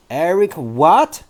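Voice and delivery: slow, demanding shout. Acted. Trunchbull shouts at the boy, slow demanding shout. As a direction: bark the question at the boy. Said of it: "the Trunchbull shouted".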